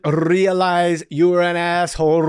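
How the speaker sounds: slow, sarcastic fake-polite apology; mock apology. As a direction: draw it out, dripping sarcasm. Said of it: "And I was like".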